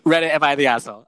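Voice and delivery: fast, laughing sign-off. Real, not acted. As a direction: rush it out through laughter. Mock announcer sign-off.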